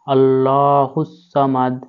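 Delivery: measured tajweed recitation; slow recitation. Shown as a demonstration. Teacher reciting the second verse after spelling it. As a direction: recite it slowly and clearly.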